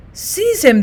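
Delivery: high-pitched cry of alarm; urgent, outraged order; horrified cry. A narrator's reading. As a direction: cry out to have the villain grabbed. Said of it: "they cried".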